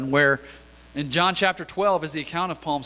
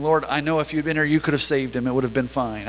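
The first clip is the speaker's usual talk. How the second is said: sorrowful pleading; 3 semitones lower than usual. Shown as a demonstration. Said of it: "just kind of a sorrowful pleading".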